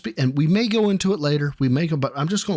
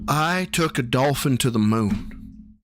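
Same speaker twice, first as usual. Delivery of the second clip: Joe Biden; 2 semitones lower, slower than usual. Acted. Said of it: "Mister Biden?".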